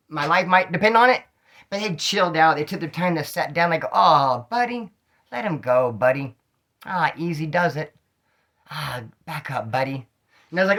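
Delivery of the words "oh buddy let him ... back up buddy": slow, easy soothing to a dog; calm coaxing. Retold or imitated. Owners coaxing their pit bull off him, slow and soothing. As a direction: gently talk the dog down.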